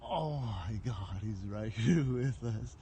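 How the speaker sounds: slow, loud, nervous laugh breaking through; stunned, half laughing in disbelief; excited. Real, not acted. Ghost appears close by.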